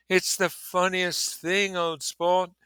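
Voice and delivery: high, slow, laughing through the words; giddy with laughter, barely holding it in; hilarious. Acted. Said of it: "he said, hilarious".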